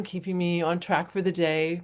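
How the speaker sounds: normal talking voice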